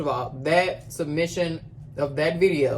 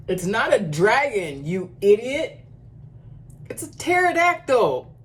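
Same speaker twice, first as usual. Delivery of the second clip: high-pitched mock outrage; mock indignant correction; 6 semitones higher than usual. Reactor correcting the dragon video's claim, mock indignation. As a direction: climb higher to a squealed punchline.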